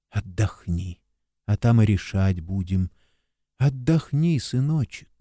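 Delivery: calm him like a mother would; soothing motherly whisper. Acted. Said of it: "тихий, спокойный ... голос шептал".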